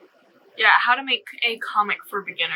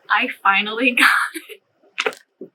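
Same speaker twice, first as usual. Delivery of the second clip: laughs mid-line, a bit slower, relieved; laughing; slower than usual. Real, not acted. Vlogger laughing at herself after nailing the intro. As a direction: giggle through the words after finally nailing it.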